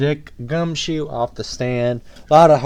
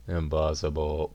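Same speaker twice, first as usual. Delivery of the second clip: stunned hush; 12 semitones lower, 12 dB quieter, slower than usual. Acted. Shocked low whisper.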